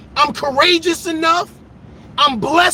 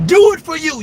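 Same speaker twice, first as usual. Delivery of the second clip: louder insistent second take; louder, insistent repeat; 3 semitones higher, 5 dB louder than usual. Acted. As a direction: push it harder the second time.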